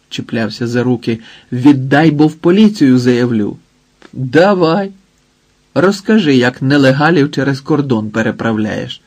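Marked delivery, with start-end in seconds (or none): 1.5-3.6 a louder, desperate threat to go to the police; a hint of an old man lashing out; angry threat. 4.1-9.0 angry. Acted. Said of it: "розгнівався Гоцик".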